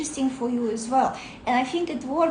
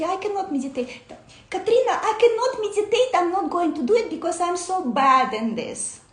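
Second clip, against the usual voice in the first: higher, whiny self-pity, a bit faster on Katrina; mock disappointed whine; 5 semitones higher, 3 dB louder, faster than usual. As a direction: play the sulky beginner who gives up. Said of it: "so disappointed".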